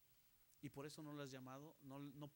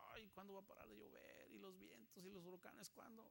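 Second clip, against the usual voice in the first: whiny complaint; 4 semitones higher, 7 dB quieter than usual. Acted. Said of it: "es como".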